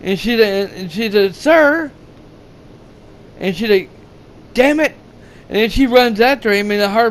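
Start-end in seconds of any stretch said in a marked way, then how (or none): 1.4-1.9 high-pitched imitated call for attention; retold calling out. Woman ranger to the runaway man, retold high-pitched call. 4.5-4.9 high-pitched mock frustrated outburst; retold exasperation. Ranger before running after him, retold high-pitched exasperation.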